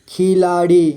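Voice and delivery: खिलाड़ी split into खि, ला, ड़ी; syllable by syllable. Shown as a demonstration. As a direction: draw out each syllable of खिलाड़ी. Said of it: "थोड़ा fast पढ़ेंगे". (खिलाड़ी को तोड़कर: खि, ला, ड़ी)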